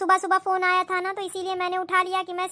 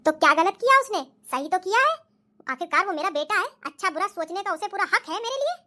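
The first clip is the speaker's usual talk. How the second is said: scolding mother-in-law. Acted. Mother-in-law backs her son.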